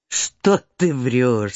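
put-on an old mother chiding her fibbing girl; mother countess.

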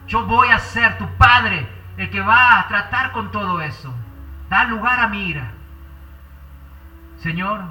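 earnest pastor's prayer, swelling and fading; fervent prayer. Acted. Pastor praying aloud for the congregation, fervent and earnest. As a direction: pour out the prayer to the Father.

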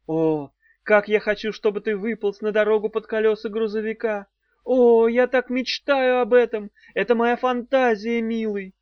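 loud hammed-up passionate gush; over-sell the fantasy; mock passion. A narrator's reading. Daf driving the worm toward a truck. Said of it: "сказала Дав".

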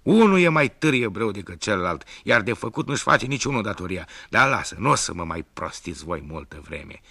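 loud, furious rant; furious scolding. Acted. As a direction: shout them down. Enraged tailor scolds sons.

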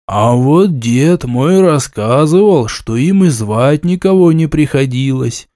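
sleepy mumble into a mug; drowsy, half-muffled into a cup; mumbled into a cup. Acted. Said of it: "сонно пробормотал в кружку".

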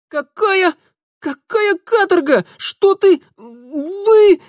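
high, loud panicked wail. A narrator's reading. Darinka hearing of prison, wailing in panic. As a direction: wail in terror. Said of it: "завопила Даринка".

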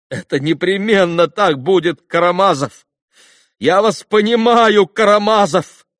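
high, loud, ringing outburst; excited boy's exclamation. A narrator's reading. Коля exclaims to Карамазов that he understands him, excited high shout. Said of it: "воскликнул, сверкнув глазами, Коля".

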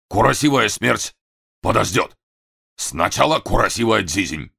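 японский акцент; Japanese accent. A narrator's reading. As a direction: play Masa mangling the Russian, Japanese accent. Masa speaks with Japanese accent.

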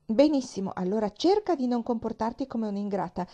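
lightly voiced strict aunt, brisk; a hint of a stern guardian giving orders. Aunt Polly sets rules for her niece, brisk and firm.

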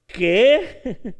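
sharp loud startled ¿Qué?; startled what. Acted. Disciples hear the impossible order, shocked what.

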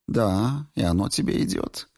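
ordinary delivery, nothing marked

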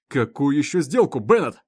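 loud, angry demand; the sheriff loses patience with the prisoner; angered. Acted. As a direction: snap the question at him. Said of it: "разозлился шериф".

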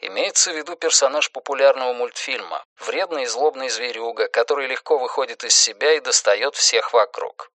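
explanatory footnote. A narrator's reading.

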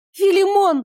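frightened high scream; shriek. Acted. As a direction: cry out his name in panic. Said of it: "взвизгнула я".

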